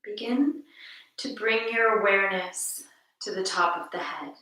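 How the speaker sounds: calm, measured meditation voice with long pauses; guided meditation. Acted. Teacher guiding listeners to notice each breath, calm guided meditation. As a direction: lead listeners gently through the breath, unhurried.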